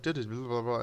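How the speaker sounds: put-on mumbling kid. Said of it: "and everything mumbled".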